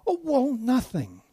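high, slow sheepish shrug; lightly voiced, embarrassed admission. Churchgoer sheepishly admitting they did nothing. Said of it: "What happened?".

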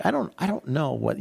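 ordinary talk, nothing marked

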